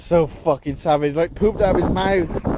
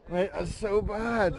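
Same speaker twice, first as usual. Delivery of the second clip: quiet disgusted groan; 6 dB quieter, slower than usual. Real, not acted. Disgusted reaction.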